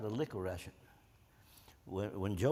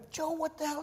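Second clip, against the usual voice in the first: put-on high, amazed hey to an old buddy; surprised greeting. Soldier surprised to find his wounded buddy in hospital, high amazed voice. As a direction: act stunned to find your friend there.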